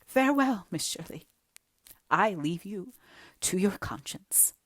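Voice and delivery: grand, theatrical farewell; dramatic farewell. Acted. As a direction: exit like a tragic queen. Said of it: "turned there dramatically".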